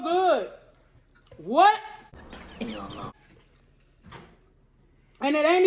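muffled by paper napkin; wiping face with napkin. Real, not acted. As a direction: hand and napkin over mouth. Seen 0: No pizza or chewing seen; wipes face, napkin covers mouth at end.

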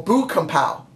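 Boo said with an oo vowel; corrected name. Real, not acted. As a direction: say Boo, rhyming with too, in Boo Kung Pao. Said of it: "I said Boo".

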